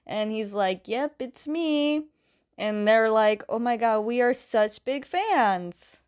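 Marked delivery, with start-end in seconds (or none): 0.9-2.1 high, drawn-out pleased reply; pleased confirmation. Retold or imitated. Aang answering his starstruck fans, flattered. 3.5-6.0 imitated fan gush, stretched at the end; gushing fangirls. Two fan club girls meeting Aang, gushing. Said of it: "just, like, gushing over Aang".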